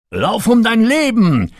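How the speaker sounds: high, loud desperate shout. A narrator's reading. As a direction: yell the warning, urgent. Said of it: "schrie Sir Robert ihr zu".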